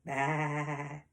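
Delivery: long, even sheep baa; sheep bleat. Acted. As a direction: imitate a sheep in one drawn-out bleat. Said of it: "the sheep kinda says the same thing".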